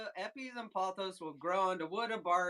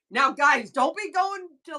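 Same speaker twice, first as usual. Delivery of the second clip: louder and higher, a playful scolding; mock warning; 6 semitones higher, 12 dB louder than usual. Real, not acted. Warning viewers against peeling bark in parks, playful scold. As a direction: call out to the chat like a teasing parent.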